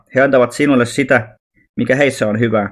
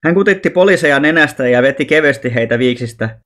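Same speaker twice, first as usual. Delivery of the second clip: plain reading voice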